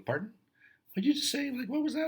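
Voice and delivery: high, sharp disbelieving pardon; mock indignant coach. Coach voicing himself scolding kid.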